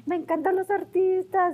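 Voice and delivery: high excited gush; light up, starstruck; thrilled. Retold or imitated. A student meeting celebrities, high thrilled gush.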